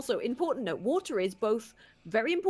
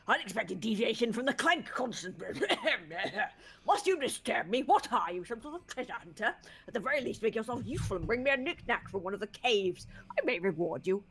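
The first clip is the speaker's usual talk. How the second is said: lightly voiced eccentric scientist; haughty mad scientist, muttering to himself; 4 dB louder than usual. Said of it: "That was a great voice".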